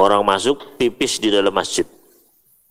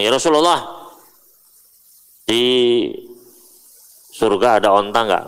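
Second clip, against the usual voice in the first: naive Bedouin question. Retold or imitated.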